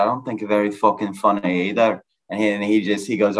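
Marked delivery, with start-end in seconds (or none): 0.0-2.0 mock Irish accent thrown back; mimicked Irish accent. Comic answering his Irish heckler right back, mimicked Irish accent. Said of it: "comedy set with the accent".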